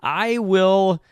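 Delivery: drawn-out, put-on enthusiasm; mock enthusiasm. Real, not acted. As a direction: announce a dreary chore with mock relish. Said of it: "you can hear it in my voice".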